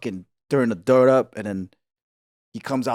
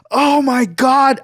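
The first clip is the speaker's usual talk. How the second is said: retold horror; 9 semitones higher, 5 dB louder, much slower than usual. Retold horror watching friend beaten.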